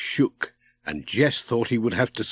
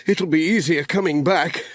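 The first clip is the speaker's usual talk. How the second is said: a hint of a grumbling postman, a little higher; Pat, lightly voiced; 6 semitones higher than usual. A narrator's reading. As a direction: Pat complaining mildly as he rows. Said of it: "said Pat".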